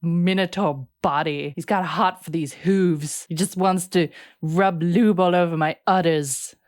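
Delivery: low, drawling Valley Girl impression; mock her as a put-upon Valley Girl. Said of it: "why am I doing Valley Girl?".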